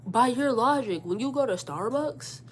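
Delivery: pointed argument. Retold or imitated. Daughter imagines challenging her mother's logic, pointed and deliberate. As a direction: lay out the case with leading pauses.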